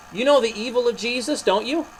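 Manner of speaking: high priest crying out. Acted. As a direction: rouse the crowd against him. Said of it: "turned to them and cried".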